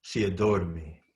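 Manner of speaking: measured reading, phrase by weighted phrase; poem recitation. Acted. Poet reading his confessional poem to an audience, deliberate recitation. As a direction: let each image land, pausing between lines.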